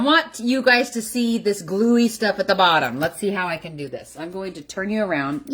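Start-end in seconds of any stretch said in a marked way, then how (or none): 4.2-5.5 sudden playful shout to startle; jump-scare the viewers; startling boo. Pretend. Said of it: "Did I scare you?".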